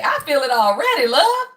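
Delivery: a proud, lifted I feel it already, love; emphatic coached line. Shown as a demonstration. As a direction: say it like you mean it, love flying up. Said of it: "Y'all better say".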